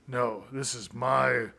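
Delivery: lightly voiced gruff action hero; a hint of a stern movie hero; badass hero voice. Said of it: "a Liam Neeson way, like a badass".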